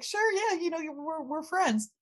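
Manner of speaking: high, eager buddy voice; eager Tommy. Retold or imitated. Retelling Tommy pushing to be friends, high and eager. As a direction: chirp it up like an overeager friend.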